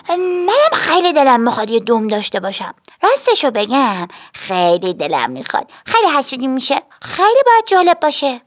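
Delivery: put-on high, longing little girl; lightly voiced girl wishing for a tail; wistful girl. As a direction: sigh for what you can't have. Minnie wishes for a tail.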